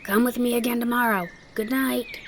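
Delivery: lifted voice, sending words after a friend; calling out after her. Acted. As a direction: call a goodbye after someone. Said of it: "Peter called out after her".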